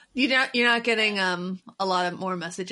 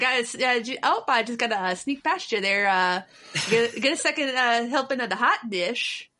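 put-on Midwest accent. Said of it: "we also say oofta".

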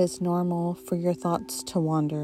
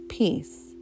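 whispered. Acted. Mentally saying the word.

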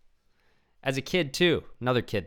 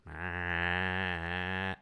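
fake sob. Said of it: "it was so intentional".

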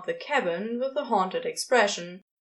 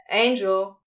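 calling out; 3 semitones lower, 6 dB louder than usual. A narrator's reading. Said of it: "Crowley called out from the window".

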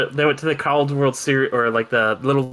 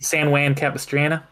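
mock New York accent. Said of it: "what do people say?".

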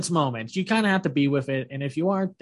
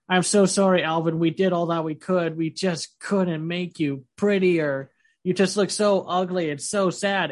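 mock apology; 3 semitones higher than usual. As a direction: act out an overdone, pitying apology. Acting out over-sorry healers in retelling.

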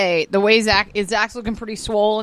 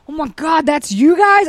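mock surprise; 4 semitones higher, 4 dB louder than usual. Friends recognize disguised pair.

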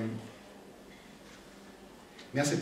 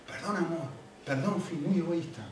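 retold apology; 2 semitones higher, 6 dB quieter than usual. Retold apology to his wife.

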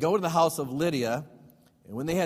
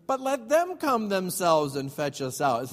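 slower, dramatic voicing of a defiant Paul; Paul daring the magistrates to come fetch him; 3 semitones higher, slower than usual. Paul telling the magistrates to fetch them, slow defiant voice. Paul's defiant quote, acted out.

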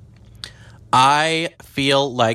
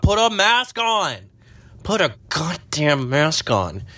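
shrill scold; 5 semitones higher than usual. Retold or imitated. Scolding peaks.

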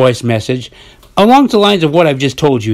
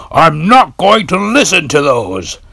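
mock whiny quote; 4 semitones higher than usual. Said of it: "he kept saying".

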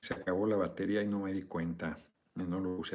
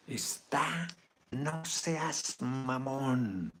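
whisper; 4 semitones higher, much slower than usual. Real, not acted. Mutters at the horse toy.

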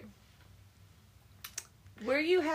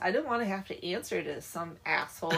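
mildly exasperated griping, growing louder; irritated henchman; 6 dB louder than usual. Retold or imitated. Hired criminal complaining about his boss, mock irritated. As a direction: grumble in imitation of a fed-up hired man. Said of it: "gets all irritated".

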